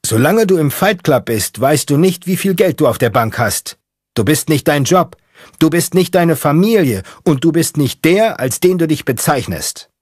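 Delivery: sustained high, loud preaching yell; shouting out the window. Acted. Mechanic preaching the rules out the car window, shouting. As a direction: bellow the creed into the wind. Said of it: "schreit aus dem Fenster".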